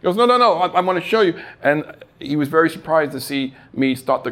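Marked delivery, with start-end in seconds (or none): 0.2-1.4 much higher, louder eager cleaner; won't take no for an answer; pushy carpet cleaner blocking the doorway, high and loud; insistent salesman. Retold or imitated. Carpet cleaner voiced in story.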